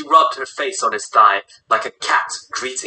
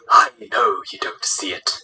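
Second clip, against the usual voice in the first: low, whispery sigh of a line; 5 semitones lower than usual. Acted. Old leader to reluctant Massimo, sighed and whispery. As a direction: sigh it out, mostly breath. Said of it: "Vladimir Kukaki sighed".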